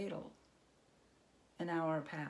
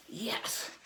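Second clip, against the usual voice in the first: grumbled yes; 4 semitones higher than usual. Acted. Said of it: "the goblin grumbled".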